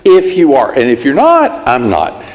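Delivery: ceasefire apology. Retold or imitated. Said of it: "It goes like this".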